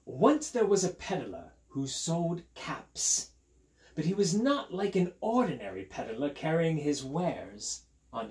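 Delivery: animated British storybook narration; put-on British storyteller with big pitch swings; British accent like Steve. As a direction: read to children in a London-style accent, pitch climbing through the list. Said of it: "I do a sort of British accent".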